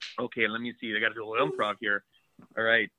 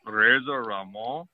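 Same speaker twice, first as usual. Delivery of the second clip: lightly voiced macho wrestler promo; a hint of a cocky wrestling heel; Razor Ramon promo. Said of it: "cutting a promo in character of your favorite eighties character".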